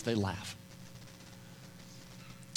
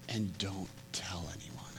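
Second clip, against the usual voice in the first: much softer, slow, hushed; hushed secret; 6 semitones lower, 14 dB quieter than usual. Retold or imitated. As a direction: keep it between us. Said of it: "he's like".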